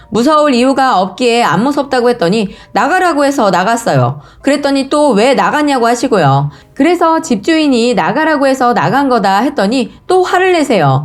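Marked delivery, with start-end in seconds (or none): none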